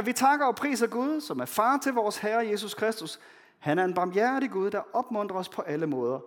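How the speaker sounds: solemn, measured reading of Paul; scripture reading. Acted. Pastor reading Paul's letter to the congregation, solemn. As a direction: read the letter out to the church.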